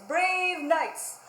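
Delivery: a hint of a grand herald reading; lightly voiced royal announcement; royal proclamation. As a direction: read it out like a pompous decree. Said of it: "and it says".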